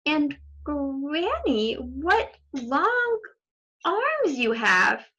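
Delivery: slow, marvelling question; slow amazed little girl; wide-eyed wonder. Acted. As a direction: marvel at what you see.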